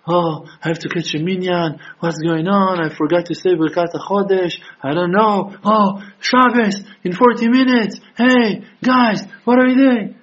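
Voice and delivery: mock frantic worrier. Mocking a frantic rushing observer.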